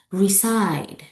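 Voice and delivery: RESIDE stressed on SIDE; light re, long SIDE in RESIDE; second-syllable stress. Shown as a demonstration. Teacher models the next example, stress on SIDE. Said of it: "words with stress on the second syllables".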